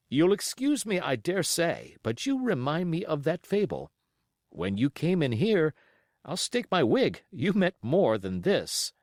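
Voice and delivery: wry, amused doctor; a touch of teasing; lightly voiced doctor. Doctor answers with a smile.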